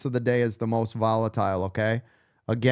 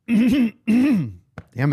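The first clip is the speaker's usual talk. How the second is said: frustrated; 10 semitones higher, 5 dB louder than usual. Real, not acted. Frustrated while clearing throat.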